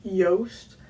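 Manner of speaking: Joost said yoast, rhyming with roast; Dutch pronunciation. Shown as a demonstration. Explaining the name to viewers, Dutch pronunciation. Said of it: "like roast with a J".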